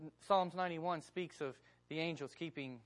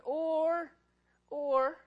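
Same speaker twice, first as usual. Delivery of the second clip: emphatic cry; 9 semitones higher, 8 dB louder than usual. Real, not acted. Preacher's emphatic high cry.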